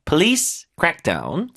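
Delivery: "police" starting with a short "puh", not "po"; slow "police crackdown", reduced first vowel in "police"; pronunciation demo. Shown as a demonstration. Teacher corrects 포 to 푸, careful slow "police". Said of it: "police는 앞에 푸로 발음하세요".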